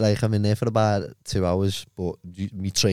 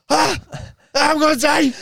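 high, loud hammed-up panic; mock terror; 3 dB louder than usual. Retelling a bad trip to his mates, high mock panic. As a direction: wail it like you think you're dying. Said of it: "and I'm going".

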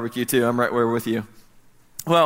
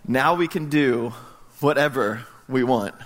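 slow pondering repeat; 3 semitones lower than usual. Real, not acted. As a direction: let the line sink in slowly.

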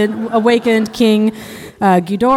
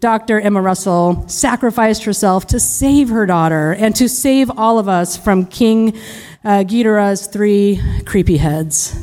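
defense lawyer impression. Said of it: "impression of a criminal defense lawyer".

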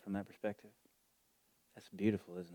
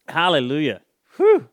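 loud, much higher joyful cry; ecstatic shout; 7 semitones higher, 19 dB louder than usual. Real, not acted. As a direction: cry out in joy. Ecstatic shout after laughter.

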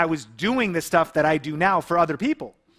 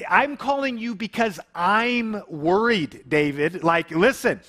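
higher, exasperated pushback at a calm friend; offended retort; 4 semitones higher than usual. Retold or imitated. To his mentor David, a retold offended outburst, mildly hammed. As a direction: let the offense push the pitch up. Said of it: "I get super offended".

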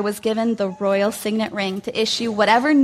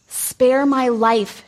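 slow pleading cry; cried plea; much slower than usual. Acted. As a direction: beg the king for your life. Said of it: "she cried".

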